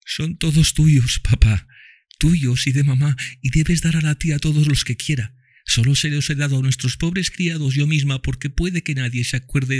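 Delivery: put-on high child voice, tender; dying girl speaks lovingly to Tom and Mami, high child voice; loving little girl. A narrator's reading. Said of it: "preguntó Eva titubeante".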